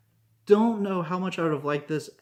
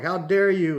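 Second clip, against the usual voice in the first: mock indignation; 5 semitones higher, 6 dB louder than usual. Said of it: "and he's like".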